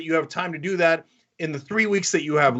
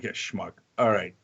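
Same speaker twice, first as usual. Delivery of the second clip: dismissive brush-off; 10 semitones lower, 5 dB quieter than usual. Retold or imitated. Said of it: "they're like".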